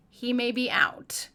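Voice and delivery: hushed whisper, no voice. Real, not acted. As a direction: breathe it out in a whisper. Horrified aside.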